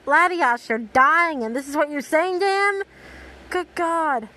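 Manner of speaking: loud, high-pitched disbelief; incredulous outburst. Real, not acted. Reader scolds the dying Latias for her words, incredulous. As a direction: exclaim in appalled disbelief. Reader's outraged aside to the character.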